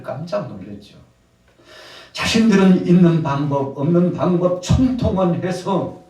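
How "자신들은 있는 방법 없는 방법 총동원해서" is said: loud, high-pitched sermon delivery; full-force preaching. Real, not acted. Preacher telling of the disciples' efforts, loud and impassioned. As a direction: drive it out to the whole congregation.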